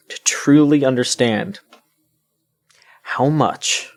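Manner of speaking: whispered for effect; dramatic whisper. Acted. Complaining to co-hosts about a game, in a dramatic whisper. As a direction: drop to a hushed whisper to build it up.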